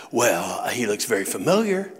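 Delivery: lightly voiced puzzled dad, pitched low; confused father. Dad answering the nurse's second question, puzzled.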